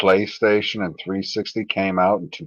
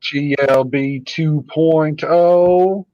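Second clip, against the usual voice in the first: excited greeting; 7 semitones higher, 5 dB louder, slower than usual. Real, not acted. Greeting a viewer loudly.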